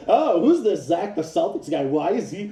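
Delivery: slight sneer imitating a dismissive host; mock pundit voice. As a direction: mimic the pundit brushing off a commenter. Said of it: "He'd be like".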